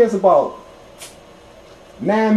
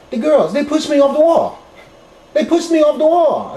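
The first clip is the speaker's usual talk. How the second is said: shaken confession; 10 semitones higher, 6 dB louder than usual. Retold or imitated. Girlfriend admits spirits pushed her.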